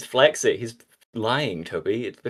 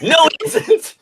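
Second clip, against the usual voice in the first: high cartoon Sonic voice; 8 dB louder, much slower than usual. Sonic voiced in read-aloud fanfic.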